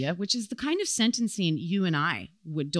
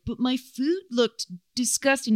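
lightly voiced whiny complaint, pitched higher; mock protest; 6 semitones higher than usual. Defendant arguing at her sentencing, mock protest. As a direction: imitate a defendant pleading her case.

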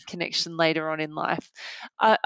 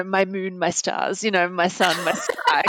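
mock Targaryen. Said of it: "sounds quite Targaryen".

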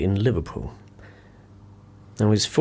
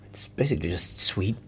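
dry whispered verdict; 4 dB quieter than usual. Acted. Whispering a verdict on the cocoa to colleague. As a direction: mutter the verdict under your breath. Nancy in room, judging cocoa.

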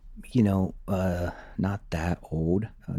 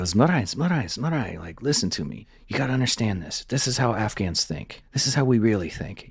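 lightly voiced Afghan commander, pitched higher; a hint of the commander lecturing him; earnest friend; 5 semitones higher than usual. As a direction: coax him like a patient teacher. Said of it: "And he would go".

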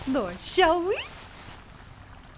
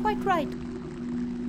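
whispered; 5 semitones higher, 5 dB quieter than usual. Acted. Whispered aside in gloomy tunnel.

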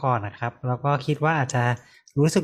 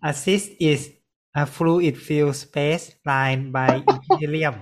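very slow, word by word English definition; spelling out a medical definition slowly; slow careful reading; much slower than usual. Shown as a demonstration. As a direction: read each word out deliberately, like a textbook. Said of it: "เราจะลองอ่านให้ฟังดูก่อนนะ".

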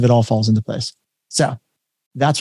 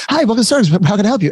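barista greeting; 7 semitones higher, faster than usual. Retold or imitated.

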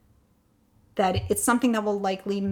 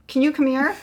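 louder, higher call up to the next room; calling again; 6 semitones higher, 8 dB louder than usual. Retold or imitated. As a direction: call out a second time, a bit more urgent. Calling again, he can't hear.

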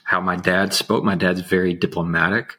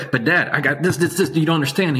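put-on higher-pitched, protesting teen pleading with Dad; whiny teenage me; 8 semitones higher, faster than usual. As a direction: whine it like a frustrated teenager. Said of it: "I'm like".

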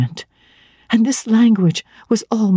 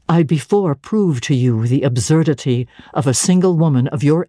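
a lower, measured voice for the cold clergyman; stern clergyman; 4 semitones lower than usual. Acted. Clergyman lecturing the young woman, low and stern. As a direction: lay out his reproach low and deliberate.

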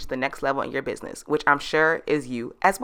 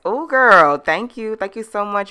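excited; 4 semitones higher, 5 dB louder than usual. Real, not acted. Thrilled by a glowing review.

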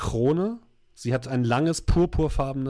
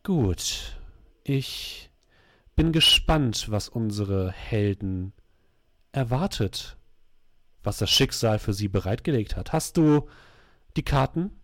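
dark sorceress voice; 3 semitones lower, slower than usual. Acted. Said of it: "in einer düsteren Stimme".

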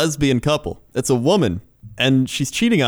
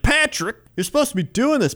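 high-pitched imitation of a nagging wife; hammed-up reproach, pitched way up; mock scolding wife; 9 semitones higher than usual. Wife calling Patrick about the echinacea, mock scolding.

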